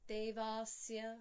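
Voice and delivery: Devasya with the middle A stretched; wrong vowel count. Shown as a demonstration. Showing students a mistake, Devasya with long middle A. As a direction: draw out va in Devasya instead of De.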